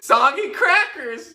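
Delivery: slow, high hammed-up wail; mock crying. Mourning granny's soggy crackers, a hammed-up high wail.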